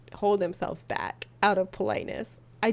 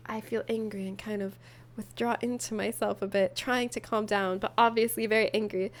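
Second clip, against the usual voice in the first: dramatic reading; 3 dB quieter than usual. Acted. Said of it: "add a little drama to it".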